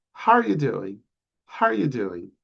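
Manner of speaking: "How are you doing?" squeezed to "howya doin'"; fast American reduction. Shown as a demonstration. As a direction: rush it like a casual American. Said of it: "when they're speaking fast".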